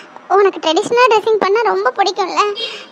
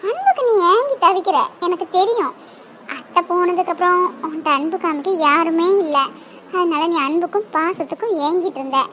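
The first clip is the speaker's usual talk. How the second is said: gentle coaxing; 3 semitones lower, 3 dB quieter than usual. Acted. Gentle coaxing to sit and talk.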